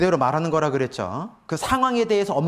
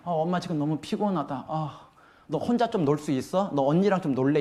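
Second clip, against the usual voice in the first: calm tired mother. Shown as a demonstration. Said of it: "화가 안 났잖아요".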